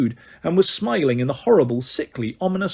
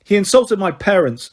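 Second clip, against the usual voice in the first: snarled; 4 semitones higher, 3 dB louder than usual. Acted. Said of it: "snarled George".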